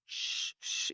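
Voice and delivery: whispered shh, urgent; breathy shushing to keep a kid quiet. Retold or imitated. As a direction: hush him in a whisper. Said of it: "trying to make him be quiet".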